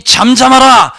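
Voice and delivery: 잠잠하라 shouted, high and loud; Jesus ordering the waves to be still, shouting; commanding shout. Retold or imitated. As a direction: bark 잠잠하라 as an order to the sea. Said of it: "주님이".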